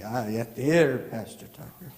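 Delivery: a hint of Scottish lilt; understated Scottish brogue; lightly imitating Scottish caller. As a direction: fondly echo her in a faint Scottish accent. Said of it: "she was Scottish or Irish".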